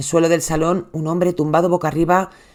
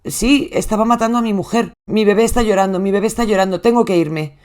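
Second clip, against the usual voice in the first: panicked plea; 4 semitones higher than usual. Retold or imitated. Husband begging the 911 operator, frantic. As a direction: voice raised, frantic and pleading.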